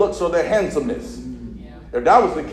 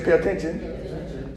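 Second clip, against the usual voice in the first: slow, drawn-out pay attention; slow call-and-response line; slow call to repeat; 5 dB quieter, slower than usual. Shown as a demonstration. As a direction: draw out "Pay attention." for the church to echo.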